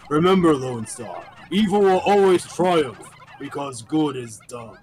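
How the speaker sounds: mild imitation of a deadpan villain; quoting Dark Helmet. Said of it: "delivered in a way that's not supposed to be funny".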